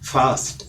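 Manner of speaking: "ഫാസ്റ്റ്" with a long aa; wrong second syllable. Shown as a demonstration. Teacher isolating the first mistake, a long-vowel faast. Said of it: "ആദ്യത്തെ തെറ്റ് അതിന്റെ രണ്ടാമത്തെ ഭാഗത്തിലാണ്".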